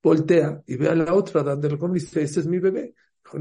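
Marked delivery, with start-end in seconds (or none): 2.2-2.9 mock-insistent, pitched up with a rising end; insistent claim. Mother claiming the baby from the other, insistent. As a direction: argue it in a higher voice.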